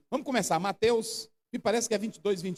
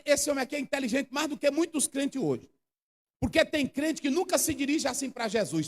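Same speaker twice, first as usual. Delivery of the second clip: usual speaking voice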